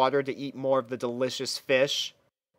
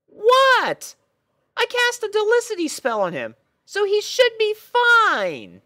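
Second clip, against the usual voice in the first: very high, louder and fast excited pony voice; excited pony princess; 5 dB louder than usual. Acted. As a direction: gush about her new ride, pitched way up. Twilight defends herself.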